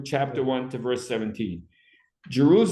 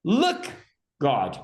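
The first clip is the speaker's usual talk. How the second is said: screaming out. Acted. Teacher acts the woman calling on God, screamed-out plea. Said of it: "she screams out".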